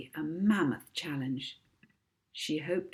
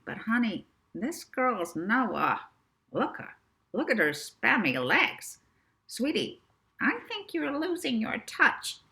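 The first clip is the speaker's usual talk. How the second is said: higher, scornful New York agent; a haughty agent brushing her off, sniffy and higher; scornful Rixie; 6 semitones higher, 4 dB louder than usual. Acted. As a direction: look down on the new girl, sniffy.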